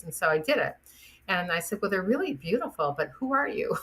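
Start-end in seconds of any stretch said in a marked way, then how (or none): 1.8-3.8 rising, higher bemused question; baffled question to a stranger with flowers; puzzled surprise. Retold or imitated. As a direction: ask it baffled, pitch climbing.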